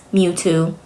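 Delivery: Mewtwo said like the Pokemon, MYOO-too; mispronounced name. Retold or imitated. Quoting her wrong name for the husband, Mewtwo as MYOO-too. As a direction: say "Mewtwo" with an M in front and "too" at the end. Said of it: "She called him Mewtwo".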